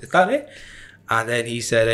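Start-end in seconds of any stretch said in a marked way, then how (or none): 0.0-0.5 "Is that it?" repeated much higher, rising; playful disbelief pitched up; mock surprise. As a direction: replay the anticlimax with exaggerated surprise.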